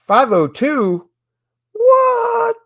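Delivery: high squeal of surprise; startled high-pitched what; surprised cry. Real, not acted. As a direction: yelp at the sudden number. Surprise at backer count.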